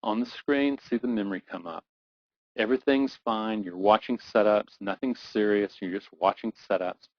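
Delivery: brisk guided-imagery voice; walk them into the memory quickly; guided visualization. Acted. Replays the trading memory.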